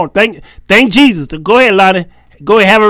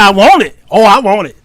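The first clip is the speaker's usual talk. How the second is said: eager bride; 3 semitones higher, 6 dB louder than usual. Retold or imitated. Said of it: "She said".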